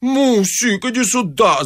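high, alarmed call for help; frightened cry. A narrator's reading. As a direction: call your wife over in a panic. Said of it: "закричал испуганный инженер". (испуганный крик высоким голосом)

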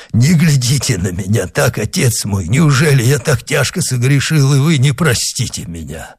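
anxious pleading. Acted. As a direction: beg him for forgiveness, voice lifted. Dying man pleads with confessor.

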